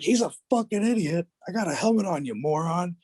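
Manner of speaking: high, put-on voice of a cocky kid; mouthy teen. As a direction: sass back at the coach. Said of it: "And I was like".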